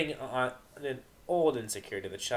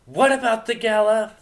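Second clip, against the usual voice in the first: loud, high comeback; sharp loud retort; shot back; 12 semitones higher, 12 dB louder than usual. Acted. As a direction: fire it back at her. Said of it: "Vinyl shot back".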